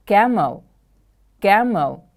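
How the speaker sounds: Camel with the first syllable stressed, then falling. Shown as a demonstration. Teacher modelling a new word for pupils, first-syllable stress. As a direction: stress the start of "Camel", let the end drop. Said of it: "The stress is on the first syllable".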